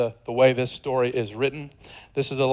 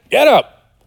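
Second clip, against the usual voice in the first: mock crowd; 9 semitones higher, 8 dB louder than usual. Crowd voiced.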